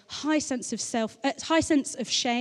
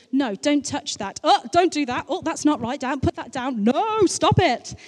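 put-on parent scolding toddler; 4 semitones higher, 4 dB louder than usual.

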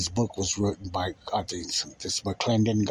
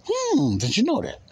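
teasing high hmm. Real, not acted. Teasing question to congregation.

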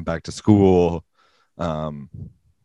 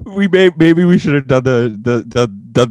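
talking through a laugh, louder; 6 semitones higher, 8 dB louder than usual. Real, not acted. Answering the host about the episode order, laughing. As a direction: laugh as you start to answer.

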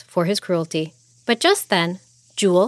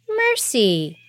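cold echo; 3 semitones higher than usual. Acted. Jewel echoing the king's plea, cool and unmoved. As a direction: throw the word "Mercy" back at him. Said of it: "Jewel echoed".

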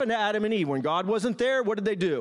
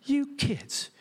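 exasperated father; 3 semitones higher than usual. Retold or imitated. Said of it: "He was having a father moment".

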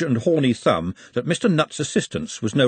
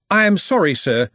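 lightly voiced captain, opening higher and louder; apologetic team captain; 7 semitones higher, 5 dB louder than usual. A narrator's reading. Hoggett apologising to the referee for his lads, respectful.

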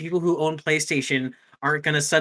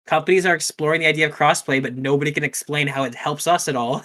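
put-on Valley Girl voice; 4 dB louder than usual. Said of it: "read that in a Valley Girl voice".

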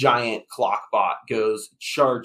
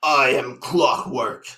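slow, cold menacing declaration; icy villain claiming his future; slower than usual. Acted. Villain answers who he is.

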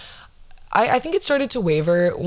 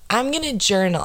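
higher-pitched mock resolution-maker; mocking imitation; 5 semitones higher than usual. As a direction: imitate someone proudly announcing a resolution, pitched up. Mocks people announcing their resolutions.

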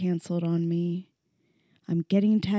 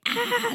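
a contained high "ah" imitating a scream; small, high-pitched play scream; mock scream; 3 dB quieter than usual.

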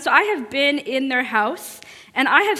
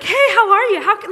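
higher, louder, beaming greeting with a laugh; so friendly; 8 semitones higher, 5 dB louder than usual. Retold or imitated. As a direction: greet her like an old friend, all warmth. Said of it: "like, so friendly".

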